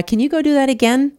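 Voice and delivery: high, astonished question; amazed doctor. Retold or imitated. Orthopedic doctor seeing her use the walker, high amazed question. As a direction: imitate a stunned orthopedist, pitched high. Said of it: "I remember he was like".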